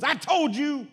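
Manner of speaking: high, loud gleeful I told you; excited told-you-so. Retold or imitated. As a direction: crow with delight. Friend nudging the driver.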